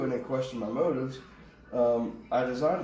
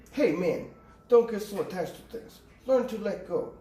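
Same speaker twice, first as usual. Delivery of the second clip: higher-pitched mock Russian accent; Mickey Rourke's Russian accent; 7 semitones higher than usual. Quoting Iron Man two's villain to viewers, bad Russian accent. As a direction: put on a rough imitation of a Russian accent. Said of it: "one of the worst Russian accents".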